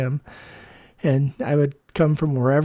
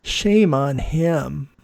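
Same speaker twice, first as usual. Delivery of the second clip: indignant; 5 dB louder, much slower than usual. Retold or imitated. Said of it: "I was like going".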